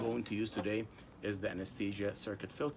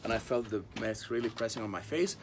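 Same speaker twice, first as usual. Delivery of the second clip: muffled. Real, not acted. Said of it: "sorry, my voice will be muffled".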